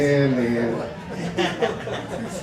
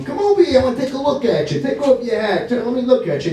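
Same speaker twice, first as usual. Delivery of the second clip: put-on higher-pitched old father calling over; a hint of a fussing elderly dad; lightly voiced dad; 4 semitones higher, faster than usual. Voices dad in nursing home.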